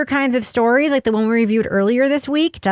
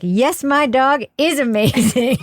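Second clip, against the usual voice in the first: affirming dog owner; slower than usual. Retold or imitated. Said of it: "so affirmatively wonderful".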